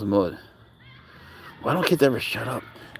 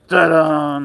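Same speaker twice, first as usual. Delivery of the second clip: louder showy reveal; 4 semitones higher, 6 dB louder than usual. Real, not acted. Showing the dog's new collar to viewers, showy. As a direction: present it like a magic trick.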